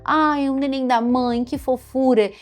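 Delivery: put-on high, drawn-out cooing to a baby; parent's high singsong baby talk. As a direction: gush sweetly over a little baby. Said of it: "brinca com eles, né, e a gente fala".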